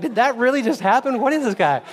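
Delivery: real laughter in a disbelieving quote; laughing disbelief. Retold or imitated. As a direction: laugh it out, can't believe it happened.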